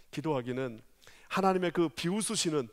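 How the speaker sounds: ordinary talk, nothing marked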